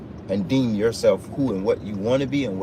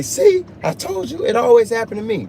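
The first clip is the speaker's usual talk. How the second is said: complainer's voice; 10 semitones higher, 4 dB louder than usual. Retold or imitated. Showing how a complainer sounds, high and whiny. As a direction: whine it like a self-pitying complainer. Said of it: "this is how it sounds".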